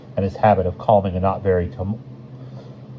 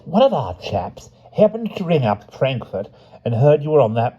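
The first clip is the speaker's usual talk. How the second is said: put-on higher, eager, apologetic young man; apologetic Crabbin; 6 semitones higher than usual. A narrator's reading. Crabbin apologizes to Dexter for missing his plane, eager and higher. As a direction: gush apologies at the arriving guest. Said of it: "went apologetically on".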